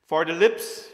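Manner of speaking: "for the lips" called out loud and rising; emphatic. Shown as a demonstration. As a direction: announce "for the lips" with force. Repeats phrase, first with emphasis.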